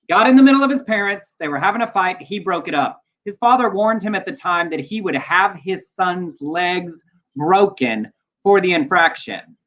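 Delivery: measured read-aloud with deliberate pauses; news story read. Real, not acted. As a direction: read the news item out, punching key phrases.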